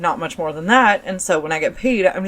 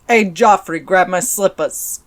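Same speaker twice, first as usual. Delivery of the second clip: mob boss Nancy. Retold or imitated. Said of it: "she probably sounds more like this".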